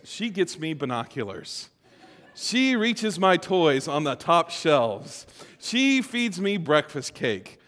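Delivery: slow, spaced-out listing; a hint of a little boy reciting his list; lightly imitated child. Father imitates his boys describing their mother, lightly childlike listing.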